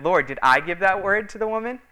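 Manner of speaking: a lightly voiced startled preacher; surprised question.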